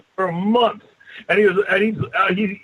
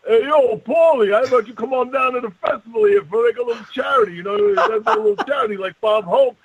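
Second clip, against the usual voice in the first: calling out; 5 semitones higher than usual. Retold or imitated. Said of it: "And I go".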